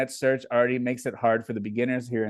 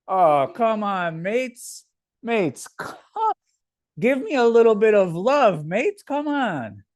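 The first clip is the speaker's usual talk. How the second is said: pleading in a high put-on British accent; 9 semitones higher, 5 dB louder, slower than usual. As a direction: beg the chat for love like a cheeky Brit. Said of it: "do we have to bring a real, a good accent into here?".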